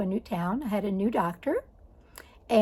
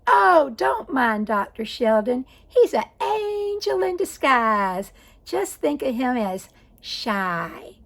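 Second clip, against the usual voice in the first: slow, lilting imitation of a kindly Southern nurse; a light imitation of a gentle Southern drawl; sweet Southern nurse; 2 semitones higher, 4 dB louder, slower than usual. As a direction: soothe the patient like a sweet Southern lady, slowed down. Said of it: "she was a sweet Southern lady".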